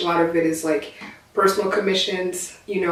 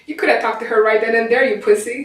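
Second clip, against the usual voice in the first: put-on Southern accent; 3 semitones higher than usual. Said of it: "I gotta do a Southern accent".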